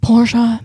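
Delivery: "Porsche" said emphatically as POR-shah; "Porsche" in two syllables, ending in ah. Shown as a demonstration. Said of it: "Sorry, Patrick Dempsey".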